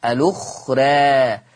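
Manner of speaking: الأخرى ending between "raa" and "ree"; slow "al-ukhree", last a tilted toward e; taqlil. Shown as a demonstration. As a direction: draw out a fronted final vowel in الأخرى. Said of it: "مقلل ليه قولا واحدا؟".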